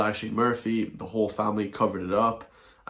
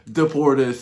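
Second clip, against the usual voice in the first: loud; 4 semitones higher, 7 dB louder than usual. Real, not acted. Ranting climax.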